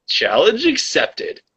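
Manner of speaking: high, slow, drawn-out acceptance; high, slow mock-dramatic "Challenge accepted"; mock heroic challenge. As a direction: accept the dare like a movie hero. Bold reply to mask police rumor.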